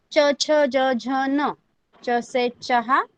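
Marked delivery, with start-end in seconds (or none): 0.1-1.5 each letter spaced out; slow recitation. Shown as a demonstration. Teacher reciting second row slowly to class. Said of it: "वैसे ही second line है".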